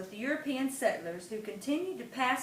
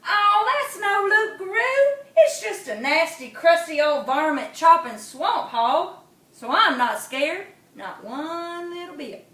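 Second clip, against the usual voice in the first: possum voice; 6 semitones higher, 8 dB louder than usual. Acted. Possum boasting to himself, high and relieved. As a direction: squeak it out, brave and small.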